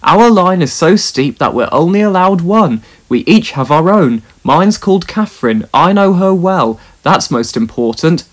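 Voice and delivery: a hint of a proud, steady engine; engine Caldy. Caldy's voice, held figure.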